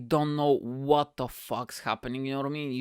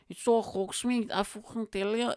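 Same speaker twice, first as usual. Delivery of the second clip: higher-pitched mimicked drunk; drunk guy impression; 8 semitones higher than usual. Drunk stranger insisting to comedian, higher mimicked voice. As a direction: imitate a tipsy man insisting, pitched up.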